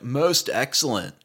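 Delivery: slow Californian catchphrase, imitated; California accent. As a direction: stretch it like a Californian slacker. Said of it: "say it in a California way".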